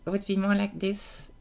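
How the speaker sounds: small mouth opening; small embouchure. Shown as a demonstration. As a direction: speak through a tiny lip opening. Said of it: "So a smaller embouchure".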